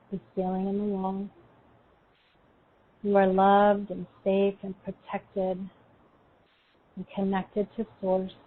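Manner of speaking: calm, unhurried meditation guide; guided meditation. Acted.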